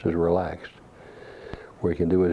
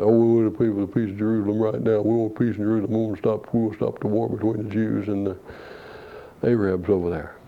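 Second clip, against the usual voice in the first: a lightly sneering, sing-song take on the man, faster; mocking imitation; 3 semitones higher, faster than usual. Preacher mocking a man's prayer request to the congregation, lightly sneering. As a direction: poke fun at his pious request.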